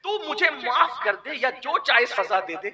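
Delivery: lover's plea. Acted. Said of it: "انداز عاشقوں کا دیکھ".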